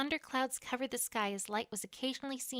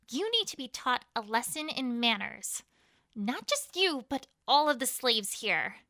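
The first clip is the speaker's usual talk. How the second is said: cold threat; 6 dB louder than usual. Acted. Queen threatens prisoner.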